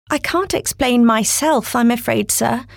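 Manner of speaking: put-on timid little girl, halting at first; shy girl voice. Alice's voice in story.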